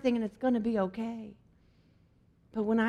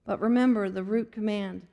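steady, earnest Bible reading; scripture reading. Acted. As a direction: read the verses with sincere weight. Reads scripture from the Message.

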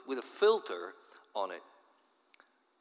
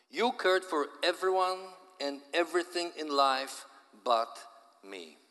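high, loud cry of despair; despairing yell; 4 semitones higher, 4 dB louder than usual. Acted. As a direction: yell at him, heartbroken. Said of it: "she yelled in despair".

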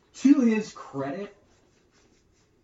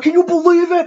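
mock disbelief; 11 semitones higher, 11 dB louder than usual. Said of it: "People are like".

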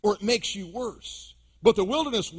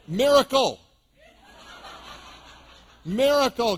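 mock miracle; 5 semitones higher, 5 dB louder than usual. Mock answer to the kids.

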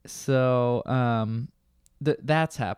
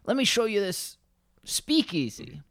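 mock drunk customer; 7 semitones higher than usual. Customer voiced in bar story.

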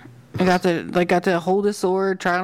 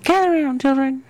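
rambling grandpa story; 5 semitones higher than usual. Pretend. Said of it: "Talking all my nieces and nephews".

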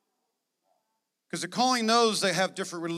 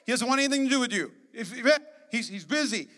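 higher, louder scolding shush; shushing crowd; 4 semitones higher, 3 dB louder than usual. Acted. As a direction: hush him like an annoyed crowd. Crowd shushing the blind man.

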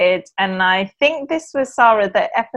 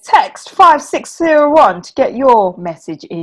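cheesy radio host plug; radio presenter voice; 2 semitones higher, 3 dB louder than usual. Pretend. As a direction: read it like a phone-in promo. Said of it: "Sounded like a radio show now".

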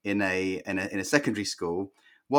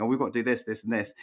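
higher-pitched, mildly whiny retold complaint; mock moaning; 4 semitones higher, faster than usual. Husband grumbling to his teacher wife about chores, mock moaning. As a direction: lightly act out a weary moan. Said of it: "moaning to her and saying".

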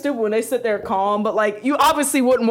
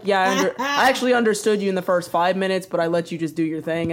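calm, even boyfriend imitation; quiet and patient; 4 semitones lower than usual. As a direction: explain it with unruffled patience. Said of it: "He just sits there quiet and patient".

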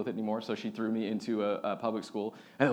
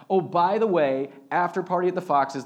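public announcement; 6 semitones higher, 7 dB louder than usual. Retold or imitated. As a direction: announce it to hundreds from the stage. Announcing to entire wedding crowd.

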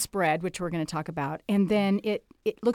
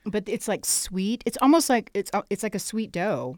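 talking with a mouthful; mouth full; 2 semitones higher, 3 dB louder than usual. Real, not acted. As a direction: still chewing while talking. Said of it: "talk with my mouth full".

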